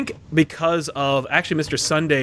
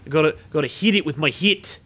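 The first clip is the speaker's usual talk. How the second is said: Kiwi accent. Shown as a demonstration. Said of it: "Hit is Kiwi".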